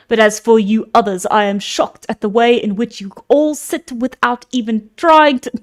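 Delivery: a lightly voiced stern old speaker; old man voice. Mentor rebukes the men of Ithaca, lightly voiced elder. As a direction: scold the assembly like an elder. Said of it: "I'm losing the voice".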